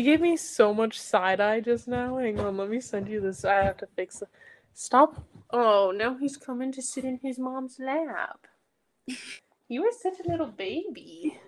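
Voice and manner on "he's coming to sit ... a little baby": soft whisper to a pet. Real, not acted. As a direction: whisper it fondly to the dog. Cooing to the dog.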